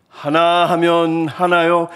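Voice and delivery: slow, drawn-out counting for projection; first step of an orator's volume exercise; building oratory drill. Shown as a demonstration. Preacher showing a friend's practice drill, slow projected count. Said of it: "점점 크게 해야 된대요".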